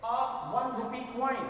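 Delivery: each word spaced out for students; slow, clear classroom dictation; slow example read. Shown as a demonstration. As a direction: read "a one rupee coin" very slowly, word by word. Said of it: "इसी तरीके से".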